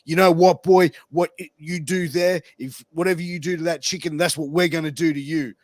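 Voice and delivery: loud menacing warning, then fast; threatening Klansmen. Retold or imitated. Klansmen threaten the preacher over his chicken, loud menace. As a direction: growl the threat across the diner. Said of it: "they go".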